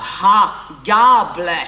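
loud vengeful roar. A narrator's reading. Wronged husband bursting in on the lovers, roaring. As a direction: bellow it at the culprit. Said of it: "Zařval".

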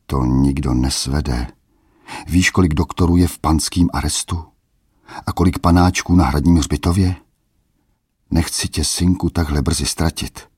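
pleading. Acted. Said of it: "skoro žadonil".

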